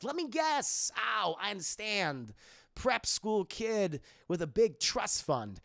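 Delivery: slow, swooping Max voice; Max impression. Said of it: "And then Max comes over. He's like".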